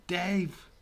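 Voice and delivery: high, loud imitation of a pestering viewer; hammed-up bossy yelling; mock demanding shout. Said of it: "It's like Connor's, like, just challenging me now".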